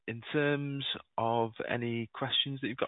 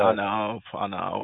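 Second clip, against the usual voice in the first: laughing; 6 dB louder, slower than usual. Real, not acted. Laughing at the caller's joke.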